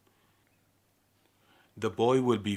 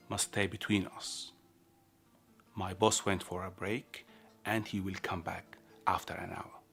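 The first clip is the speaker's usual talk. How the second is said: softly, as a secret between two; confidential; 6 dB quieter than usual. Acted. Guard confides a secret request.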